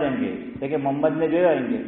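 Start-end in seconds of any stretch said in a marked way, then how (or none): 0.8-1.2 محمد squashed to "Mammad", ha swallowed; Gujarati slurred name. Retold or imitated. Cleric mimicking Gujaratis mispronouncing the name, slurred to "Mammad". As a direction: clip محمد down to two syllables, "Mammad". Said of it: "ہم گجراتی لوگ نبی کا نام صحیح نہیں لیتے".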